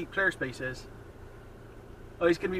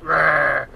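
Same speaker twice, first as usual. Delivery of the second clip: mock growl; 4 semitones lower, 6 dB louder than usual. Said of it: "just like".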